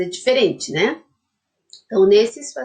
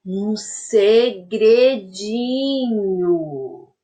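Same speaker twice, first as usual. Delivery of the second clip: whispered secretly, drawn out slowly; breathy slow whisper of a secret; much slower than usual. Shown as a demonstration. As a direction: hush it like sharing a secret. Teacher whispers the word secret.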